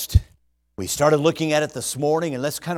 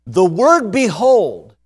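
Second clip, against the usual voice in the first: "The word behold" said slowly and louder, "behold" falling; slow emphatic behold; 5 dB louder, slower than usual. Shown as a demonstration. Preacher dwelling slowly on the word behold in his verse. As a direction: lean on "behold" and draw it out. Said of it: "give it a little extra oomph".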